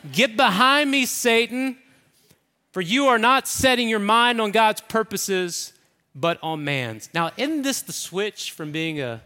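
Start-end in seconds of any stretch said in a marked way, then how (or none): 0.1-7.1 louder, higher rebuke of Get behind me; forceful rebuke. Retold or imitated. Jesus rebuking Peter, louder and forceful. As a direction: bark it out like a firm command.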